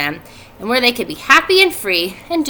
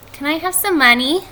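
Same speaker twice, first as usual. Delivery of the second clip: put-on eager child; 7 semitones higher than usual. A narrator's reading. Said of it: "asked Fern".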